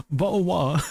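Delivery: "Bottle of water" as bo'o' wa'ah, no Ts; T dropped. Shown as a demonstration. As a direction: swallow every T in "Bottle of water". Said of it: "without the letter T".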